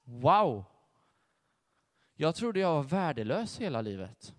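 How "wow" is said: louder amazed wow; sincere awe at your worth. Real, not acted. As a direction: let the wonder out. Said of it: "Wow, säger jag då".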